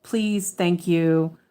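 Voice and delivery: drawn-out please and thank you, x0.5; slow prompting. Retold or imitated. Mom prompting her son, slow and deliberate. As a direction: spell it out slowly for a child. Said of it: "I was very much like".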